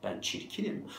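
hushed, mock-sad voice; acted quiet self-pity; self-absorbed self-pity. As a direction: murmur it to yourself, wallowing. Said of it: "böyle diyen insanlar var kendine".

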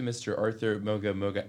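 stumbling over the surname as "Moga Moga"; mangled surname. Retold or imitated. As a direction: imitate a caller giving up halfway through "Moga Moga". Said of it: "can't pronounce my last name properly".

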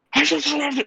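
high imitated noise into the mic. Angry kid making noise in the mic, high imitated burst. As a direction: make a burst of garbled noise into a microphone. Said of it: "you do the".

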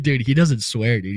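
high, loud excited outburst; amazed laughing disbelief. Retold or imitated. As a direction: blurt it out, thrilled. Excited retelling of the swearing.

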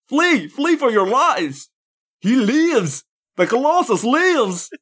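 very high, drawn-out, intentionally bad British wail; hammy, wandering British-ish cry of alarm; mock British accent. Co-host as fleeing villager warning of the Colossus, mock British. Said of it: "I can do a mocking British".

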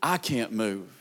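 a hushed, broken-down prayer; desperate inner plea. Acted. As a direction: pray it like the last breath you have. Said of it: "the kind of cry on the inside that says".

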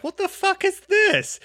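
mock horrified squeal; shocked outburst. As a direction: blurt it like the accent just caught you off guard. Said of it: "I was like".

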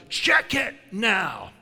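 slow, loud commanding shout. Retold or imitated. Preacher shouts at the big guy to check his healing. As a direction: bark the order at him, slowly. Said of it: "And I shouted".

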